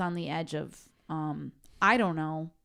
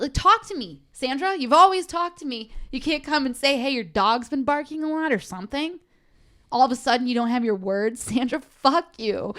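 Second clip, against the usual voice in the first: angry rant; 5 semitones higher, 3 dB louder than usual. Real, not acted. Ranting straight at the neighbor.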